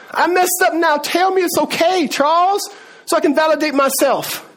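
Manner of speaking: mock pleading. Preacher mimicking people who want itching ears tickled, mock pleading. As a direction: play someone begging to be told it's fine.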